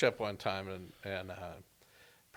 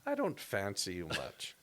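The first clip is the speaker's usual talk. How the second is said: lightly voiced polite nana, softer; nice old British lady; 5 dB quieter than usual. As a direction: insult softly, as if being nice. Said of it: "but it sounded so nice".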